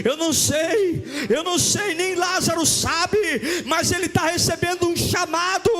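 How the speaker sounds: high, fervent shouting that keeps building; impassioned pulpit crescendo; full-force preaching. Real, not acted. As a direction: build to a shouted climax, last word held long.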